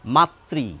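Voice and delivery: মাতৃ said as matri, ri clear; pronunciation demo. Shown as a demonstration. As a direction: spell out মাতৃ as ma-tri. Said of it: "আমি আলাদা করে লিখলাম এইভাবে".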